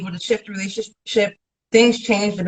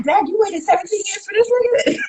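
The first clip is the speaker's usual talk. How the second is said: mock disbelief; 12 semitones higher, faster than usual. Acting out a disbelieving onlooker.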